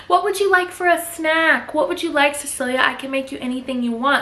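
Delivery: high, put-on sweet nanny voice; mock eager-to-please, through gritted teeth; forced politeness. Nanny trying to please the little girl, forced sweetness. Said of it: "she just gritted her teeth".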